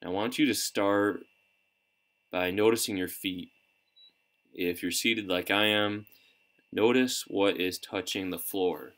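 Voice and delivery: unhurried guidance with long pauses between phrases; calm, measured coaching through breath and body scan; guided meditation. Real, not acted. Coach leading listeners through breathing and a body scan, calm meditation guidance.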